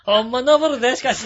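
high, loud comic Osaka routine; brash Kansai comedian shout; Yassan impression. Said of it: "やっさんじゃないか".

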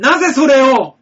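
loud, high, hammed-up gasp of surprise; mock shock. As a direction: play the stunned victim. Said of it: "何この寸劇".

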